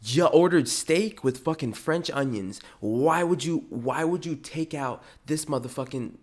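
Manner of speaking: mild mock yell at a server; retold yelling. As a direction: scold them, re-enacting a kitchen rant. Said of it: "I'd yell at all the fucking servers".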